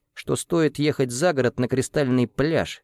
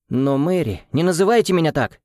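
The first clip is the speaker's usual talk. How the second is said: angry outburst, higher and louder; flaring up; 7 semitones higher, 3 dB louder than usual. Acted. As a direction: snap back in sudden anger. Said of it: "вспыхнула Соломенко".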